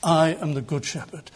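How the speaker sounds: low-pitched, savouring declaration; relishing the thought. Retold or imitated. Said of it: "It's almost as if he's relishing the thought".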